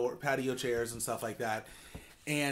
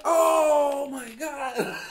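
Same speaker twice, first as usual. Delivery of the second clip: much higher, loud mock shriek of shock; freaked out; 12 semitones higher, 8 dB louder, much slower than usual. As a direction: yelp it like a startled customer, then laugh. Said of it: "Like, kind of freaked out".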